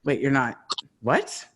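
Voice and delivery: sputtering, jumping way up on holy f-; retelling stunned disbelief at not being arrested; half-laughing retold shock. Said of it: "'cause I was so shocked".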